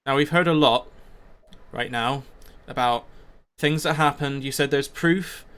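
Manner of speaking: lightly voiced sceptical dwarf; challenging dwarf. Dwarf demanding proof from the would-be leader, pointedly sceptical. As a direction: challenge him publicly, punching the openings of phrases.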